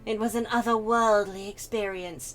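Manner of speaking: starts composed, builds to grand fervour; courtly gentleman carried away by memory; rhapsodic wine lover. Acted. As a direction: swell into theatrical rapture. Character rhapsodises about wine.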